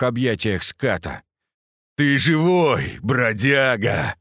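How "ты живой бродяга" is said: overjoyed. A narrator's reading. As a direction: greet an old friend back from the dead. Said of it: "обрадовался он". (радостно, громко)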